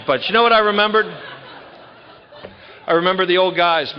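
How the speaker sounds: high, loud rallying cry; rousing. Real, not acted. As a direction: lift the room with it. Turning point, rousing the audience.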